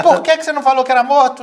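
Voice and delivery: fast, high, loud reproach; comic outrage in a rush; acted exasperated demand. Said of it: "E aí eu fiquei pé da vida".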